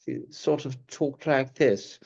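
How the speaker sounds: slow, lightly voiced old-Hollywood accent; a hint of Karloff's drawl; Boris Karloff. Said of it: "Boris Karloff".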